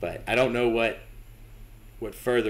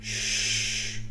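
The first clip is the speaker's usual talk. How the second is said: whisper; 5 dB quieter than usual. Real, not acted. Hushing in scary game.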